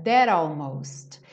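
"that almost" with the T as a quick tapped r, dɛɾ ɔlmost; flapped T linking. Shown as a demonstration. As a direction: tap the T of "that" into "almost". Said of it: "o T vira rarará".

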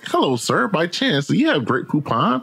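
a light imitation of a snooty ad voice; posh commercial voice. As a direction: ham up a fancy Grey Poupon ad gentleman. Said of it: "you know that commercial is like".

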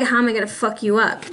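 a quick, sly menace under the breath; sounding evil. Retold or imitated. Reader voicing a two-faced person plotting, sly menacing mutter. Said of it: "No, that sounded evil".

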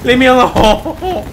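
slow, laughing through the words; laughing plea. Real, not acted. Gamer fleeing zombies, laughing through the plea. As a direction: giggle it out while running away.

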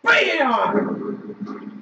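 slow, drawn-out battle cry; defiant shout. Real, not acted. Gamer taunting the game before a fight, slow defiant shout. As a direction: dare the game to come at you.

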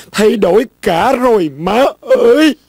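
tearful lament to mother; theatrical weepy wail; breaking into tears. Acted. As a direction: end in hammed-up sobs. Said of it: "mày đừng có khóc nữa".

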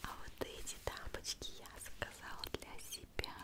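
ordinary talk

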